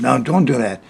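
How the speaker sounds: a firm no, patience running out; firmer warning. Retold or imitated. Father telling stubborn little son to stop, now firm. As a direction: put your foot down this time, no hush.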